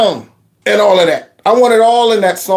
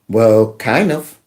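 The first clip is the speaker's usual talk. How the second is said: hesitant reply; 10 semitones lower, slower than usual. Pretend. Imagined Latina answering.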